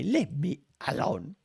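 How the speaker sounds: a touch of pouty sulk, rising end; lightly voiced sulk; sulky mutter. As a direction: push them away, half-hearted. Sulky reply in voiced argument.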